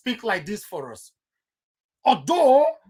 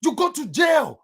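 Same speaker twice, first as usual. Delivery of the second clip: shouted warning; 5 semitones higher than usual. Shown as a demonstration. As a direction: bark out you go to jail, hitting go. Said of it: "That's it".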